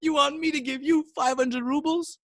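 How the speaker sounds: high, incredulous, amused question; high-pitched scoffing at the demand; laughing disbelief. Acted. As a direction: ask it through mock laughter. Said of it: "looks at him and starts laughing".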